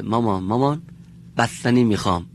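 put-on a little child lisping to mother for ice cream. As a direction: play a small child asking for ice cream. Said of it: "نوک زبانی صحبت کنه".

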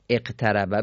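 اقتربه begun with "e": eqtaraba; kasra on alef. Shown as a demonstration. Teacher offering students a second reading, اقتربه said "eqtaraba". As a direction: open اقتربه on a short "e" sound.

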